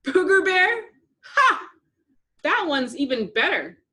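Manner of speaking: high squealing laugh at the name; delighted cackle. A narrator's reading. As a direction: crack up at the nickname. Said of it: "Buttercup cackled with delight".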